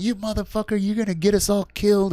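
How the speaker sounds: replaying how he snapped at the kid on the bus, pitch jumping up; retold angry outburst. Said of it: "And I just went off".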